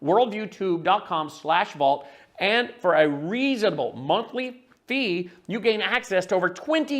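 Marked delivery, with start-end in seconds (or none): 0.0-2.0 slowed down, each part separate; careful dictation of the URL; slow, spelled-out web address. Shown as a demonstration. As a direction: read the address slowly so they can type it. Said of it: "All you have to do is go to".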